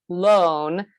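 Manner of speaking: "lone" drawn out with full weight; stressed syllable. Shown as a demonstration. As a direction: let "lone" ring as the strong syllable. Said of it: "the second syllable".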